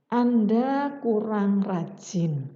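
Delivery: slow, measured "Anda kurang rajin."; gentle correction. Shown as a demonstration. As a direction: say it slowly and kindly. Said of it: "Respon positifnya seperti apa?".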